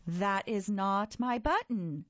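mild wail, slow. Acted. Toad upset over the wrong button, mild slow wail. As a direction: stretch it into a slow lament. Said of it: "wailed Toad".

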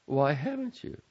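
high, insistent mother; mother pressing her son; demanding mother. A narrator's reading. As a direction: demand an answer. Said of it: "Missus Glass demanded".

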